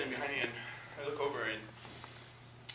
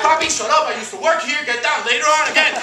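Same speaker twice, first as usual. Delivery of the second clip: embarrassed loud hush; 10 semitones higher, 12 dB louder than usual. Retold or imitated. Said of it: "I was like".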